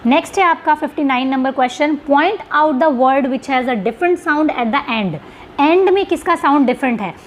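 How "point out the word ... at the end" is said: reading the question aloud slowly; spelling out an exam question to students. Shown as a demonstration. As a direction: read each word of the question out deliberately.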